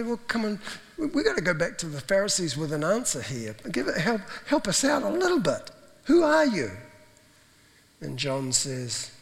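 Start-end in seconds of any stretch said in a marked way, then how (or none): 0.0-6.7 pleading, exasperated. Retold or imitated. Questioners pleading for an answer.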